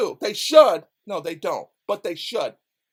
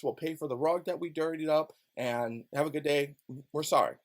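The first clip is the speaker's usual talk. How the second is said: soft, low mock official apology; a sarcastic, softened official voice; 5 semitones lower, 6 dB quieter than usual. Officials imagined apologizing to Eric, mock sincere. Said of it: "Instead of saying".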